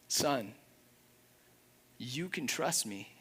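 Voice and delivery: Jesus softly calming Peter, tender; tender reassurance. Retold or imitated. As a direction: reassure him like a loving father. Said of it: "how I believe Jesus was communicating".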